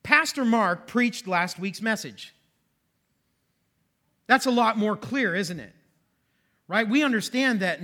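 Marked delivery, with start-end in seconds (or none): 0.0-2.3 slow, deliberate example reading; read out slowly. Shown as a demonstration. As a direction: read the active example carefully. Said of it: "So look at this sentence".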